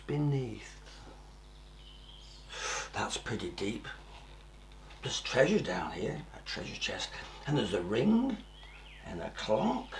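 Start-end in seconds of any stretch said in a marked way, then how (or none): 5.0-7.1 whisper. Acted. Finding treasure underground.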